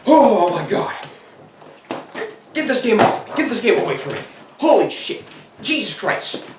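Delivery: hammed-up panic, high pitch; mock horrified screaming. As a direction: shriek at the cursed game. Screaming in horror at the game.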